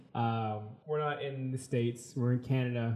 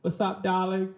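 higher, put-on greeting voice; exaggerated phone greeting; 6 semitones higher than usual. Shown as a demonstration. Answering her call in his car, exaggerated and high. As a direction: put your whole body into the hello. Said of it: "I'll actually get my arms into it".

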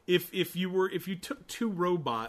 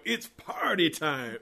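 slow, stretched-out dog catchphrase; party dog; slower than usual. Retold or imitated. Host mimicking the dog's looped catchphrase, lightly drawn-out party cheer. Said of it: "the same animation of him going".

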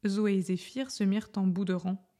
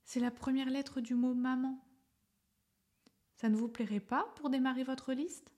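smiling murmur; 4 semitones higher than usual. Acted. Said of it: "Il sourit et murmura".

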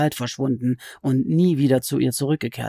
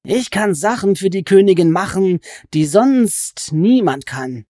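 sly goblin voice; 6 semitones higher, 6 dB louder than usual. Acted. Goblin crouched over Alice, complaining she is a sorceress, in a high sly voice. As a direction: stretch the words like a gloating, sulky goblin.

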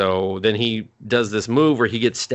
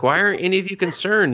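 high, exasperated mock panic; imitated freaking out; 9 semitones higher, faster than usual. Branded girl to friends nonchalantly standing there, imitated freaking out. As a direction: demand it in mock alarm. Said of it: "like, freaking out".

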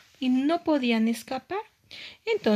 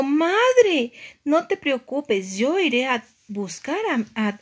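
lightly voiced young heroine, higher, loud first word; worried little mermaid; 4 semitones higher, 5 dB louder, slower than usual. Aria promises mother to find her sister, lightly worried. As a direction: call out to mother, then settle down. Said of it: "muy preocupada".

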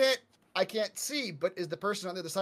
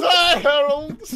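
silly high voice; 9 semitones higher, 12 dB louder, much slower than usual. Acted. Repeats mock greeting.

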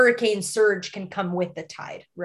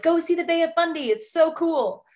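higher-pitched mock-enthusiastic urging; imitating eager recommendation; 7 semitones higher than usual. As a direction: quote gushing friends, voice lifted. Quoting people urging a visit.

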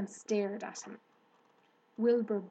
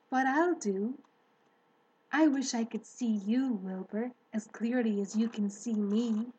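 Charlotte speaking. Acted. Charlotte's voice held.

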